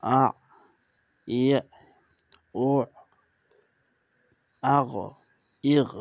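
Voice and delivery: আ ই ও আগ ইগ, এক এক করে থেমে থেমে; reading drill. Shown as a demonstration. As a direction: model each sound clearly. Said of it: "আমি কিছু কিছু উচ্চারণ করে দিচ্ছি". (ছাত্রদের জন্য ধ্বনিগুলো আলাদা করে উচ্চারণ)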